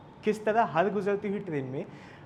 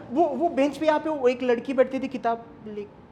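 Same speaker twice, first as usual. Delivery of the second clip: higher, halting worried inquiry; urgent questioning; 5 semitones higher, 4 dB louder than usual. Acted. Asking the station master about the missing girl, urgently. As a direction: stumble over the first word, pressing for news.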